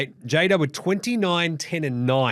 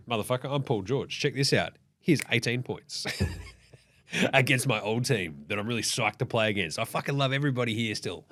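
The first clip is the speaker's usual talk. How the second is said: Paul George swagger; 3 semitones lower, 6 dB quieter than usual. Retold or imitated. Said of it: "Paul George is like".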